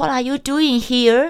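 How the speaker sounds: put-on thick Indian accent, very high and loud. Retelling what a border patrol soldier asked, in a thick Indian accent. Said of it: "这个军人操着浓浓的印度口音".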